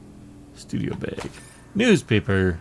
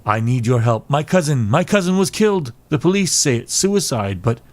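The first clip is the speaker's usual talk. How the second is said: lightly voiced client, pitched higher; distressed client; 3 semitones higher, 4 dB louder than usual. Client begs detective to look into cousin's death, distressed. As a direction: plead for help over a killed cousin.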